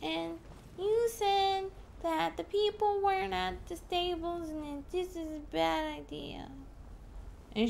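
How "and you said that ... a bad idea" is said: imitating angry lady. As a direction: play the betrayed woman scolding. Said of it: "She's gonna be like".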